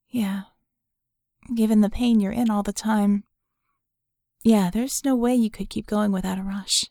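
hint of a woman who gets it; lightly voiced Vicky. Vicky sympathizing.

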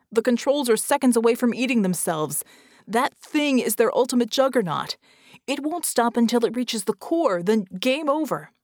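loud, insistent warning; urgent yelling. Acted. Red explains the doomsday machine to Vicky, yelling urgently. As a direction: raise the voice in desperate explanation. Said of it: "Red yelled back".

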